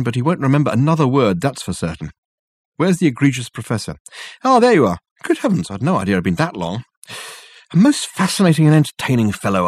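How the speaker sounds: a theatrical gentleman bowing his way out; Dirk's voice. Acted. Dirk boasts to Richard.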